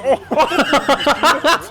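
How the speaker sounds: sudden high yelp of surprise; a sharp, shocked oh; startled shout. Real, not acted. Sudden hit during wrestling match.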